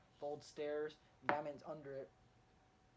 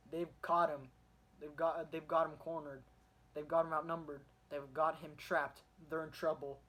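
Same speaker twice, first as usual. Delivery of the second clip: louder, building comic-book narration; dramatic readout; 6 dB louder than usual. Retold or imitated. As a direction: pump it up like a tense news caption. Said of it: "And it says".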